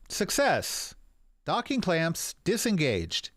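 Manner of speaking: computer voice. Acted. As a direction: speak like a ship's computer. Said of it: "a computerized sounding voice".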